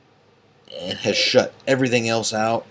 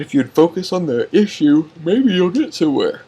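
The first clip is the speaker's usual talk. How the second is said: retold retort; 7 semitones higher, 6 dB louder than usual. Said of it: "I said".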